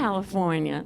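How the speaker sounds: low, softened echo of her answer; mimicking audience member. Comic copying a woman's hometown answer, low-key mimicry. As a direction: imitate her low, understated "California". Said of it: "Look how she said it".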